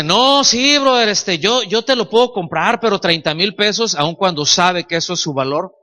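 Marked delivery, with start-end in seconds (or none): 0.0-3.9 haggling buyer. Retold or imitated. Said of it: "le dice".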